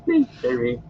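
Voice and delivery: high moaning misery; Gollum moan. Acted. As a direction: moan it, pitiful. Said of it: "repeated misery".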